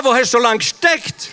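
glad, impatient welcome; eager reproach. Retold or imitated. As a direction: burst out as if he should have come long ago. Imams greet the long-awaited messenger.

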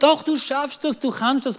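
insistent parental reassurance, acted; imitated motivating parent; encouraging. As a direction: answer the doubt with a quick pep talk. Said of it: "Wir haben ihn motiviert".

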